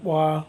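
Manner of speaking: wa said short and open as wah; native word. Shown as a demonstration. Navigator naming the canoe in his language, short open wah. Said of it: "So we call it".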